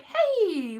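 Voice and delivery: high, drawn-out cheery hail; friends' eager offer. Retold or imitated. Friends calling with an offer of a flat, eager.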